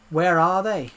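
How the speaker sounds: lightly put-on Irish caller's question; a hint of Irish accent; imitating an Irish scammer. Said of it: "I can do the Irish accent pretty well".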